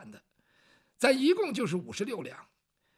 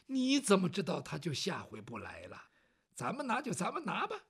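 much lower and softer, calmly resigned; low resigned elder; 4 semitones lower, 6 dB quieter than usual. Acted. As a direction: shrug it off quietly. Elder character voiced low.

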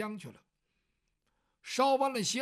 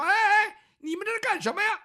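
higher and much louder alarmed outcry; alarmed old woman's cry; 11 semitones higher, 9 dB louder than usual. Acted. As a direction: shout in alarm as they grab the girl. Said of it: "旁边这老太太就说". (老太太惊慌地高声喊)

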